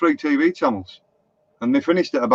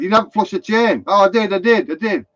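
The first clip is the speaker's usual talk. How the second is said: higher-pitched mock telling-off and protest; retold squabble; 4 semitones higher than usual. Stan and the child argue about flushing, mock indignant. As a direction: act out a small indignant squabble. Retold argument over the toilet chain.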